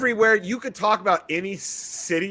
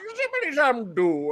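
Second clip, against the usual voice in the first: mimicking a rambler; 7 semitones higher than usual. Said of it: "He's like".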